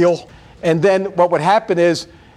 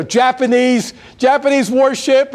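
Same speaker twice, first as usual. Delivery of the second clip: higher-pitched mock shout of alarm; imitated warning shout; 6 semitones higher than usual. Sonar man alerts the submarine crew, retold shout. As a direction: call out a sighting, half-shouted. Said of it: "he shouts in his thing".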